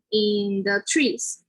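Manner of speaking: "in the trees" with "the" starting on an n, drawn out. Shown as a demonstration. Teacher giving an example phrase, slow "in the trees" with TH as N. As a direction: slowly run "in the" together as "in na". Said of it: "T H sound will become like an N".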